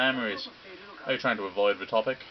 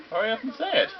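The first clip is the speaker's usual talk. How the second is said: much higher, louder urging; impatient demand; 13 semitones higher, 6 dB louder, faster than usual. Acted. Student urging the villain to reveal, high and loud. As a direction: push them to spit it out.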